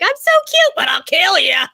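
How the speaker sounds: cute poison frog. Pretend. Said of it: "It's like".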